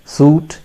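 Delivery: "suit" like the clothing word; wrong pronunciation. Shown as a demonstration. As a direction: show mistaken "suit" with an oo vowel. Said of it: "that's a wrong pronunciation".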